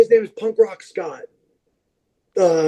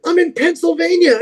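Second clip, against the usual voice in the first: higher, imitating her; a raised, lightly voiced friend; friend's reply; 8 semitones higher than usual. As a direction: friend answering where she is, higher.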